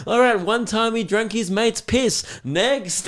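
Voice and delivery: deadpan salesman, then next; auctioneer patter. Retold or imitated. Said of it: "And then it's just like".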